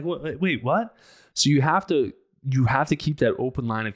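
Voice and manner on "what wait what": rising higher and higher in disbelief; baffled. Retold or imitated. Host imitating his own confusion, climbing higher. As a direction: do a bewildered double take. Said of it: "Now I'm like".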